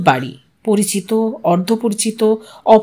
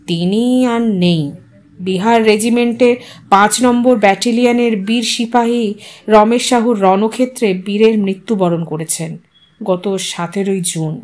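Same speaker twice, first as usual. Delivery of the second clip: solemn, head bowed; 3 semitones lower than usual. Acted. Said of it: "মাথা নামিয়ে বলল".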